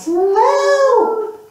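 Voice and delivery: calling for help. Acted. Boy flees flooding porridge.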